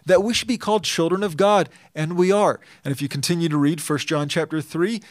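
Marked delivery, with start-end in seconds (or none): 0.0-2.6 louder, higher exclamation of wonder. Shown as a demonstration. Preacher quoting First John to his church, astonished exclamation. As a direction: proclaim it with astonishment. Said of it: "Not a question".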